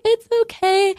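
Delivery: imitated small child, pitched very high; little girl's reply. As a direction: squeak it like a reassuring little kid. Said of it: "she was like".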